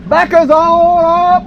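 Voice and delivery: slow, high, loud call to the boat; excited shout. Real, not acted. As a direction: yell it out urging her on.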